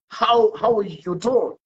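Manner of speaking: slow, drawn-out British how are you doing. Retold or imitated. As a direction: ask it slowly in a British manner. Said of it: "If you ask me".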